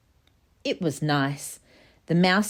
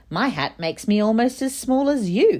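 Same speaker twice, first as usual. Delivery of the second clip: higher piglet voice; brightly, like a little pig; 6 semitones higher, 3 dB louder than usual. Acted. Pig speaks to mouse.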